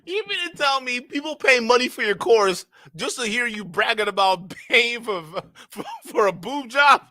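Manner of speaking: cracking up in disbelief at the story; laughing shout. Real, not acted. Reacts to boob-job story.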